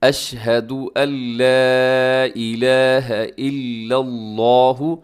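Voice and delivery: slow, measured Arabic recitation with long held vowels; unhurried tajweed reading; model recitation. Shown as a demonstration. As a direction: recite for students to copy, drawing out each long syllable. Teacher demonstrates model recitation.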